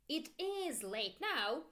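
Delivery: slow, with "is" stretched out; emphatic IS, teacher modelling it; stress on IS. Shown as a demonstration. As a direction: punch "is" to insist it's true. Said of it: "we make the emphasis with our intonation".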